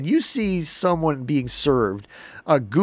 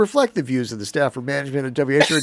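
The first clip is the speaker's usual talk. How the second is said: disclaimer read; 4 dB louder, faster than usual. Pretend. Mock radio disclaimer read.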